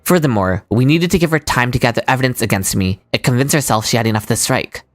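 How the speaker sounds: low, even and composed; calm male character voice. Acted. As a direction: deliver it cool and unbothered.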